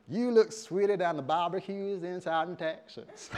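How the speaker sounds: playful Southern American flattery; mock-Southern American sweet talk; Southern American suitor. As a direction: woo her in a put-on Southern American accent. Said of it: "Southern American".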